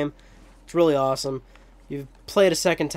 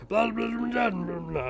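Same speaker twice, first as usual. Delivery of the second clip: high, raspy gibberish rant; mock grouchy puppet babble; Oscar the Grouch; 8 semitones higher, 4 dB quieter than usual. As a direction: garble it into a raspy high jabber. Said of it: "I'm making his voice sound like that".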